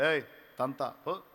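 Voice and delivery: slow, lightly scolding father; a hint of a stern father brushing the child off; retelling a father scolding his crying child; mild mock rebuke. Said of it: "అని గద్దించి వెళ్తాడు".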